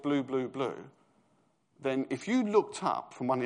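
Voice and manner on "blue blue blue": boss calling out. Retold or imitated. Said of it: "every time he said".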